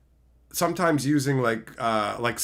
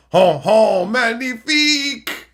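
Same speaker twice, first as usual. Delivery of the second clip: slow, high hammy "magnifique"; drawn-out mock French exclamation; french chef; 9 semitones higher, 8 dB louder, slower than usual. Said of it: "I speak French too".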